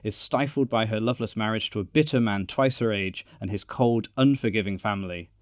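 measured, trailer-like narration; film synopsis read. Acted. Podcast host introducing a period film to listeners, synopsis read. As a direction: read out a dramatic plot summary.

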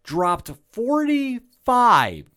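popping the mic; mic-popping close-up voice; too close to mic. Real, not acted. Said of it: "I apologize for just popping in the mic".

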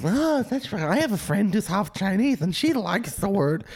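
high-pitched mock excuse-maker; mocking imitation. Comic mimicking people who excuse a slur, high-pitched mockery. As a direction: parrot their excuse in a silly high voice.

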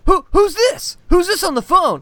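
high, rising mock panic; mock confused boyfriend. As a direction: play the guy caught out and flustered. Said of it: "the guy's like".

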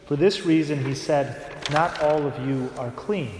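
solemn, measured Gospel proclamation; Gospel reading. Acted. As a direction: read the Gospel aloud at Mass.

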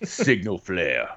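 robotic gun command. Pretend.

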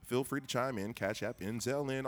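hard sell ad; commercial voice. Pretend. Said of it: "commercial voice".

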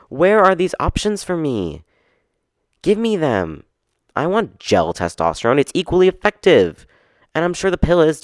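high, loud, indignant pleading for the gel; hammed-up outrage, demanding what you're owed; shrill-free loud mock fury at the clinic; mock outraged demand. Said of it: "I'm so mad about it".

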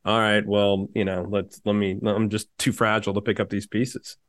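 low, deflated mock-male voice; pummeled-ego guy. Friend imitating rejected men with bruised egos, low and deflated. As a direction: drop your pitch and play the wounded suitor. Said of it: "their ego would be just pummeled".

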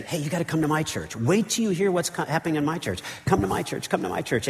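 high, excited pitch, pleading friends to come; eager invitation. Pretend. New churchgoer urging friends to come, high and eager. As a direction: sell your church like a thrilled new member.

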